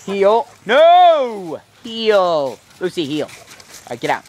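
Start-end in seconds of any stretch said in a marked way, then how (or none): 0.0-3.3 loud, raised-pitch commands; dog command. Real, not acted. Owner to dog Lucy, loud commands. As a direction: call the dog to heel, loud and high.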